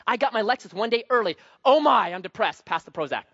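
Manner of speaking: mock drama queen. Pastor mocking spoiled drama queens, hammed-up whine. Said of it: "we call them drama queens".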